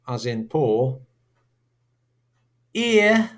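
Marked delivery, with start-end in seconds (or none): 2.7-3.3 "ear," said as the glide in dear; diphthong as in dear. Shown as a demonstration. Teacher models the diphthong, sounding it out. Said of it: "as in dear".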